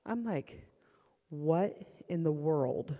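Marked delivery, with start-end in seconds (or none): 1.3-3.0 slow, drawn-out bafflement; stunned disbelief. Retold or imitated. Mother reacting to her son's odd behaviour, stunned disbelief. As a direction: let each word land in disbelief.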